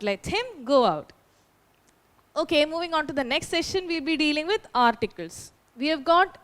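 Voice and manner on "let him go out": slow, deliberate correction with "him" stressed. Shown as a demonstration. Teacher gives students the correct answer, slow stress on "him". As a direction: draw the words out slowly, leaning on "him". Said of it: "the correct answer is".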